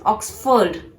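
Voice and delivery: "Oxford" as OX-fuhd; "Oxford" split into ox and fuhd; correct Oxford. Shown as a demonstration. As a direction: soften the second vowel of "Oxford". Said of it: "to be pronounced as".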